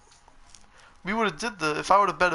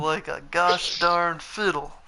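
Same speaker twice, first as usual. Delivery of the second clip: drawn out; much slower than usual. Pretend. Mock folksy complaint of defeat.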